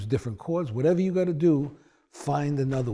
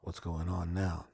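much lower and softer, slow, near whisper on "shit"; quiet dread; 9 semitones lower, 9 dB quieter, much slower than usual. Retold or imitated. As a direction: mutter it under your breath, worried. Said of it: "And I'd be like".

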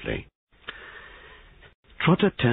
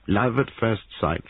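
sympathetic; 6 semitones higher than usual. Acted. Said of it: "said Sergeant Trotter sympathetically".

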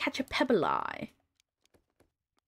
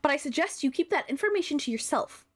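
lightly voiced regal character, a touch moved; emotional queen; 5 semitones higher than usual. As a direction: read as a gracious queen, confiding.

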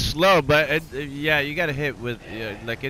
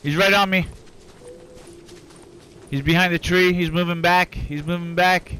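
tense raised callouts; combat callout; 5 semitones higher than usual. Real, not acted. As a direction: keep calling the enemy's moves. Tracking enemy in firefight.

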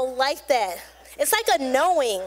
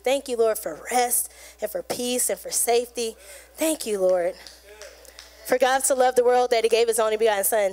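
prayer; 2 semitones lower than usual. Shown as a demonstration. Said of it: "Find you a verse and just start praying it".

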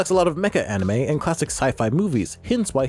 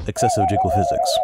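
high squeak. Acted.

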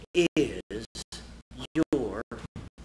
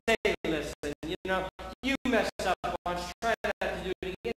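lightly voiced soft judge. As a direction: shrug it off like a lenient judge. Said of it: "He says".

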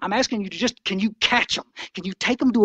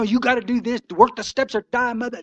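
higher, mock-preachy meeting bully; mock pushy old-timer; 4 semitones higher than usual. Old-timer bullying a newcomer, mock preachy push. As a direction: hammer it like a zealot with a big book. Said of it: "you're beating people up".

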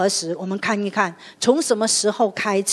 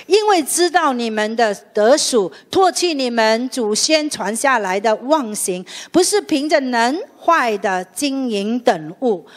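scripture reading. Shown as a demonstration. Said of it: "来，我们一起读".

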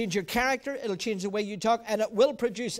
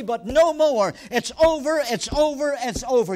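louder, emphatic declaration; forceful declaration; 4 dB louder than usual. Shown as a demonstration. Pastor modeling a declaration against fear, loud. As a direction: hammer each phrase home. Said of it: "You need to say that".

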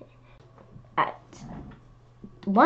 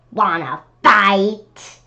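grouchy challenge; 6 dB louder, slower than usual. Acted. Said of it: "said the grouchy ladybug".

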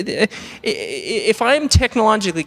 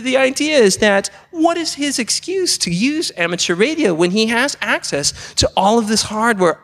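ordinary delivery

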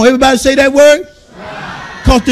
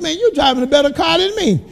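almost said; 3 semitones higher than usual. Retold or imitated. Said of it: "I almost said".

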